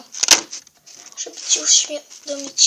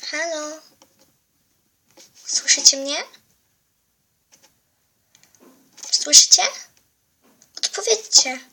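calling out for help; 5 dB louder than usual. Acted. Lost girl calling for help.

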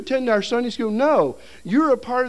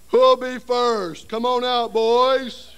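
slow, loud call across the lake; hollering to the boys from the water; 3 semitones higher, 4 dB louder, much slower than usual. Retold or imitated. Instructor calling scouts out into the lake, loud and slow.

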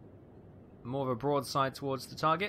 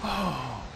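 nervous laugh; 9 semitones higher than usual. Real, not acted. Gamer reacting to a terrifying sea battle, nervous laugh. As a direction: exhale into a high, drawn-out laugh.

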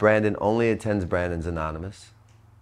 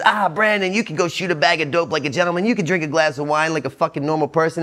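tempting inner voice; 5 semitones higher than usual. Pretend. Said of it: "your voice pops in my head and it says".

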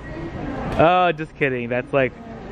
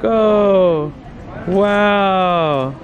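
cheering on; 4 semitones higher than usual. Real, not acted. Cheering toddler pushing cart.

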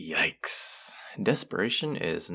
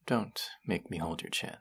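whisper; 7 dB quieter than usual. Acted. Close teasing threat.

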